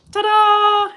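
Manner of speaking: high, loud ta-da. Real, not acted. Host unveiling Kung Fu Jen to viewers, excited. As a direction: announce it like a reveal. Presenting a guest.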